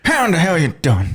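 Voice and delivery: high Texan greeting; Texan accent. Shown as a demonstration. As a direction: holler it like a Texan. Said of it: "you just hit it".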